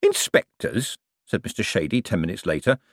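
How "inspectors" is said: "Inspectors" drawn out, turned over like a candy; savouring the word. A narrator's reading. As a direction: roll "Inspectors" round the mouth, moderately raised pitch. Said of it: "turning the word over in his mouth like a candy".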